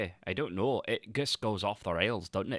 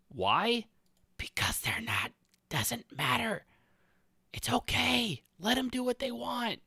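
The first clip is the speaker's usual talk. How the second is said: mock high voice; 14 semitones higher than usual. Mock answering voice.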